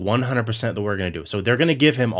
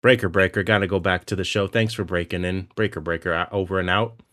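walkie-talkie talk; 2 semitones lower than usual. Pretend. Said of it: "Walkie-talkie talk".

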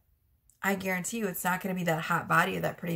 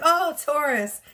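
swooning admirer; 7 semitones higher, 6 dB louder, slower than usual. Retold or imitated. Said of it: "They're just like".

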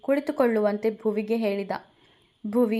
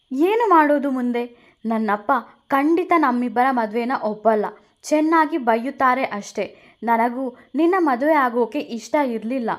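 put-on louder, upset young woman; upset bride; 3 semitones higher, 4 dB louder than usual. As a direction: throw his words back at him. Bhuvi upset. (ಬೇಸರಗೊಂಡ ಹುಡುಗಿಯ ಜೋರಾದ ಧ್ವನಿ)

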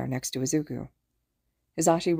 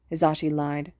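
ordinary delivery

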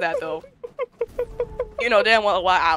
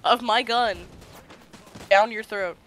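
louder, raised-pitch play threat; mock threat; 3 semitones higher, 5 dB louder than usual. Streamer threatening a teasing friend with a gun, mock menace. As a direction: threaten loudly in mock menace, easing off at the end.

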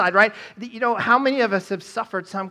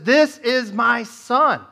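higher, louder, slow and grand; voice of God; 6 semitones higher, 7 dB louder, much slower than usual. Retold or imitated. God to disciples on the mountaintop, slow booming proclamation. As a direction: proclaim it like a voice from heaven. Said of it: "the voice of God speaks to them".

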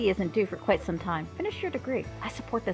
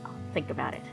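grumbling; 6 semitones lower, 6 dB quieter, faster than usual. A narrator's reading. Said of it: "Filet grumbled".

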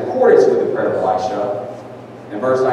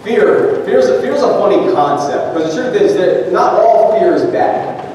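energized preaching; 7 semitones higher than usual. Real, not acted. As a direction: launch the sermon with energy. Sermon opens with energy.

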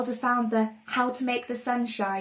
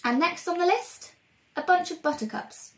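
witch voice; 8 semitones higher than usual. Acted. Velda reading her list.

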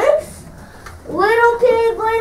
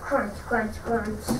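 wolf munching; 9 semitones lower, 13 dB quieter, slower than usual. Acted. Wolf eats the pig.

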